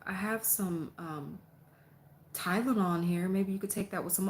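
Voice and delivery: mock the overly caring neighbor; hammed-up hospitable fuss; mock polite hostess. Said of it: "I'm not finna sit here and".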